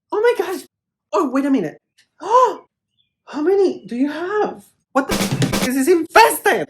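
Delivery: high, loud, freaked-out alarm; horrified by the bugs; panicked. Real, not acted. Discovering infested plant.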